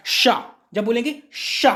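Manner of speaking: "शा" slowed with the hiss drawn out; teacher stretching "शा" to show the tongue on the palate; slow sh demo. Shown as a demonstration. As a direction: sound out "शा" slowly. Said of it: "शा बोलने से आपको समझ में आ जाएगा".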